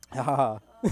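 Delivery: loud, spoken-out ha-ha-ha; deliberate laugh. Pretend. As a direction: laugh in separate, deliberate syllables. Spelt-out laugh after crude joke.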